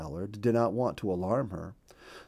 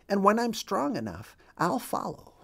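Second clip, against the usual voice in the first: brave husband; 10 semitones higher than usual. A narrator's reading. Wounded husband sends wife on.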